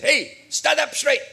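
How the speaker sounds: half-hearted parade-ground order; mock drill sergeant. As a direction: playfully snap it like a sergeant. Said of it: "as a sergeant that says".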